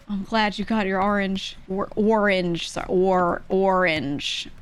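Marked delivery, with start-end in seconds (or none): 1.7-2.7 ORANGE with a rounded "or" start; others' pronunciation. Retold or imitated. Streamer mimicking how other people say orange, mock pronunciation. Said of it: "That's what you people say". 2.9-4.5 drawn-out OR at the start of ORANGE; others' pronunciation. Retold or imitated. Streamer copying other Americans' orange, mock pronunciation. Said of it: "That's what you people say".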